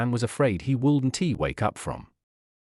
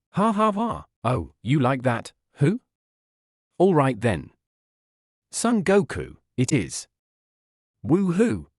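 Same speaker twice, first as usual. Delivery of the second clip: laughing; 3 semitones higher than usual. A narrator's reading. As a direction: cheer as you name the baby. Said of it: "Gohan laughed".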